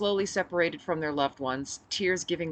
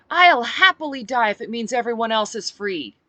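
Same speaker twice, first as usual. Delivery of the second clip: rousing speech; 7 semitones higher, 10 dB louder than usual. Acted. Speech to crowd.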